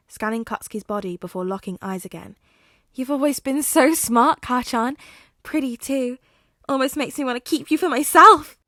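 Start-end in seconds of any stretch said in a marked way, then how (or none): 2.9-8.6 high, loud possessive croon; creepy flirty villain. Acted. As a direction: purr it with menace.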